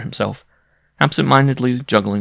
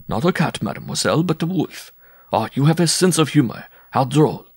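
higher-pitched, smiling placation; conciliatory; 7 semitones higher than usual. A narrator's reading. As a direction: humour her to keep the peace. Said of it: "in a conciliatory tone, smiling".

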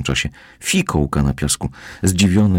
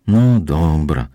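reluctant purr of agreement; 4 dB louder, much slower than usual. Acted. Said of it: "zamruczał jednak na zgodę".

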